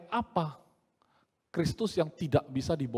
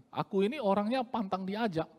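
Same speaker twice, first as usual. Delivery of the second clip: Medan-style boast; 5 semitones higher, 4 dB quieter than usual. Retold or imitated. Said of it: "gaya orang Medan ya".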